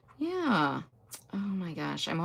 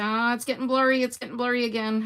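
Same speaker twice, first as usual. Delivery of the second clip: a touch higher, quick mock grumble; mock complaint; 5 semitones higher, faster than usual. As a viewer fussing about blur, lightly higher. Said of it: "so you could say".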